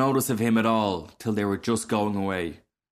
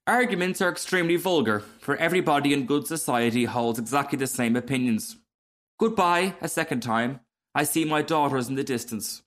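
lightly voiced frog, breezy and self-satisfied; complacent frog; 5 semitones higher than usual. Frog saying goodbye to the rocket, complacent. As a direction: dismiss it airily and take leave.

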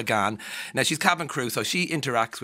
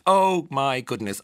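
slow, louder drawn-out admiration; mock gushing; 4 semitones higher, 6 dB louder, slower than usual. Stranger charmed by an Irish accent, mock gushing. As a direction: imitate a besotted admirer. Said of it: "most said thing to her".

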